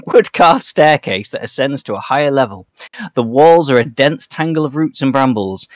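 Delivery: a light touch of a tour guide, unhurried; tour guide patter. Acted. Trigger guiding the party round the room, mock tour-guide patter.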